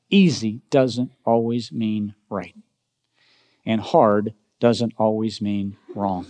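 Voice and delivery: Easy and hard leaned on, said slowly; slow, stressed lesson. Shown as a demonstration. Pastor repeating the lesson to the church, slow and stressed.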